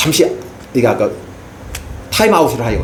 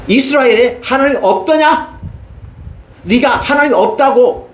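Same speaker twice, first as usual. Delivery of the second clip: God's rebuke; 7 semitones higher, slower than usual. Acted. God rebuking Ahaziah for seeking idols, slow and high. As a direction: ask it slowly, aching and stern.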